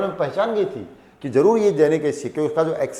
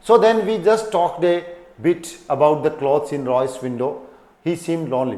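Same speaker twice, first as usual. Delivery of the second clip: slow story reading; 3 dB louder, much slower than usual. Acted. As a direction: read each English word slowly and clearly. Reads the story text to class. (धीमी कहानी पढ़ाई)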